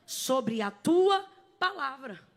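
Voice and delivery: TUA stretched loud, then palavra falling away; emphatic repetition. Retold or imitated. Preacher repeating Peter's words, slow and emphatic on TUA. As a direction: hold "tua" long and loud, then pause.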